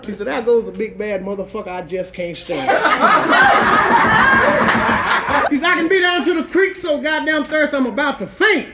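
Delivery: rhythmic comic storytelling in verse; rhymed toast recitation. A narrator's reading. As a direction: recite it like a bawdy rhyming tale.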